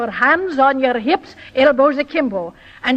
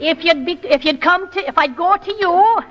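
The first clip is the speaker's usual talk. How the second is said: higher Irish lilt; coach's Irish accent; Irish brogue; 4 semitones higher than usual. Shown as a demonstration. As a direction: demonstrate an Irish brogue for copying. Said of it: "make it a good brogue".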